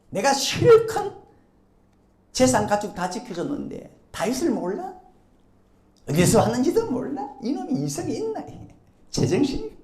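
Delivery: acted indignant outburst with rising questions; indignant David. David rages at Nabal who refused him food, mock indignation. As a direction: play David fuming at an ungrateful man. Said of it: "속에 살기가 있죠".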